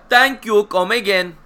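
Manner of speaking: hammed-up Apu-style thanks; echoing the catchphrase in a put-on shop voice; mock shopkeeper voice. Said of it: "What did I say last night".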